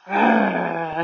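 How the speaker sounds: rolled growling roar at moderate volume; mild acted roar. A narrator's reading. Jack acts like a gorilla at the leopard, mild roar. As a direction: growl out a restrained storybook roar. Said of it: "he roared".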